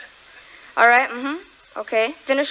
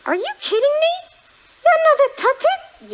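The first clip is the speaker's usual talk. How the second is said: surprised; 11 semitones higher, 4 dB louder than usual. Acted. Puppet reacts to another puppet.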